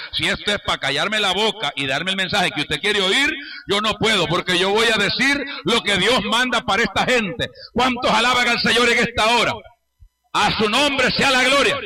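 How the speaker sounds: firm preaching that builds in force; rousing pulpit call; emphatic preaching. Real, not acted. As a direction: declare it boldly to the congregation. Preaches his defiant answer.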